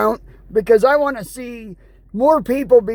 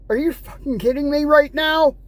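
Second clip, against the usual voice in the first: angry disbelief. Real, not acted. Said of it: "me yelling".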